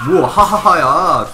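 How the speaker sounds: slow laugh through words. Real, not acted. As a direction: laugh it out loud. Laughing at teammate in game.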